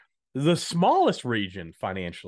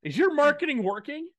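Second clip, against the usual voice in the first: loud, high, hyped-up pitchman; carnival barker voice; 9 semitones higher, 5 dB louder than usual. Acted. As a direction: bark it like a fairground huckster. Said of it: "some weird Carnival Barker voice there".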